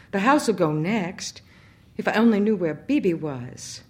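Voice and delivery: high, loud fearful plea; panicking in the storm; frightened. Acted. Terrified woman during lightning storm.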